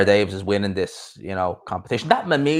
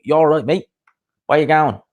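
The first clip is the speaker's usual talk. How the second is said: higher-pitched attempt at an East London accent; bad East London accent; 6 semitones higher, 4 dB louder than usual. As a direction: badly imitate an East London cabbie. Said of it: "I can't do an East London accent, obviously".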